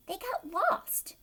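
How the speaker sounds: slow secretive whisper. A narrator's reading. Narrator telling kids they got lost, slow whisper. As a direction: hush it like a secret. Dramatic aside in story.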